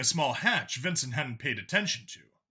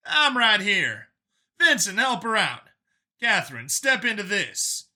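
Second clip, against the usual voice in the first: The speaker's voice; 6 semitones higher, 5 dB louder than usual. Acted. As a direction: take charge, steady and firm.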